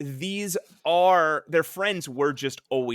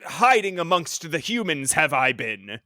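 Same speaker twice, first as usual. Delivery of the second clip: slow, booming alien villain; grand menacing alien speech; villainous alien voice; 3 dB louder than usual. Retold or imitated. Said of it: "he talks like a villainous alien".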